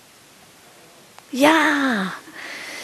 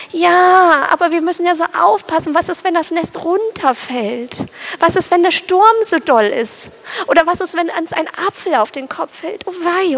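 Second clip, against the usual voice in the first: higher, rushed worrying bird voice; anxious little sparrow; 5 semitones higher than usual. Acted. Fearful sparrow listing dangers to his new mate, high rushed fretting. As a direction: tumble out every fear fast.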